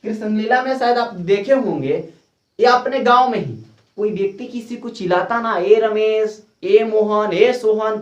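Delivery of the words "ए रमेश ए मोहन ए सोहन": mock calling out. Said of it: "चिल्लाता है ना बड़ी दूर से".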